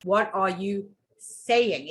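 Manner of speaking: slow, a pause before a weighted "saying"; stress on SAYING. Shown as a demonstration. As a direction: hold back, then land on "saying". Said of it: "put emphasis on each word separately".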